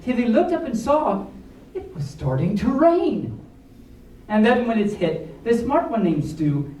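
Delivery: lively storybook read with rhyme; reading to children. A narrator's reading. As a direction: read the rhyming story to the kids. Reads picture book aloud.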